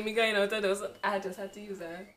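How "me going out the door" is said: put-on Vincentian accent. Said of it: "I know that I'm Vincent thing".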